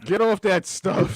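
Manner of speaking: slow sitcom dad scolding; hammed-up slow sitcom dad line; goofy clueless sitcom voice. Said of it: "sounded like a sitcom dad".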